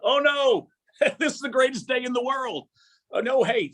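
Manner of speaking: mock-cheerful contrarian shrugging off bad news; contrarian guy. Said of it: "Bob's contrarian guy".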